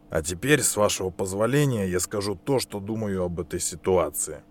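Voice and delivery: soft, restrained reply; calm and quiet. Acted. Inspector answers calmly after outburst.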